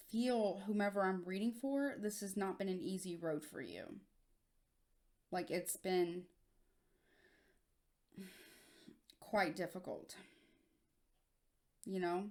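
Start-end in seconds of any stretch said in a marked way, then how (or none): 2.0-12.3 choked up, voice catching, quieter. Reading for someone and speaking to them directly, choked up. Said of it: "I get choked up talking about this".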